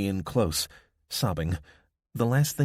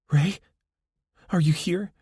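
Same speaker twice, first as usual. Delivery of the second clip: high, searching call into the dark; 10 semitones higher, 5 dB louder than usual. A narrator's reading. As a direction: call out for a lost sister. Abby calls for missing sister.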